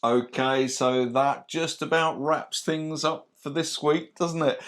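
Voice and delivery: lightly done game show host. Pretend. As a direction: wrap up like a TV host. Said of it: "You sounded like a game show host then".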